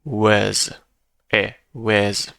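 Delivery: was said with a short schwa, like wuz; casual wəz for was; weak form of was. Shown as a demonstration. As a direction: reduce was to a quick wəz.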